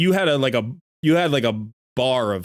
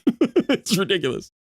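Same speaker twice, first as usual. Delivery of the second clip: laughing; slower than usual. Real, not acted. Laughing about own eating noises.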